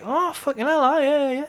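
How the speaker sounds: high, excited mock exclaim; recognition. Viewer recognising the song in the film, high excited exclaim. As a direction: play the viewer who spots the song. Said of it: "you'll be like".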